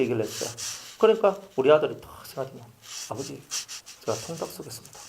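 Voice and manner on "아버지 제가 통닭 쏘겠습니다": much softer, lower polite voice; a child offering shyly; 수줍게 조용히; son's quiet offer. Retold or imitated. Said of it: "딱 이렇게 얘기하는 거예요".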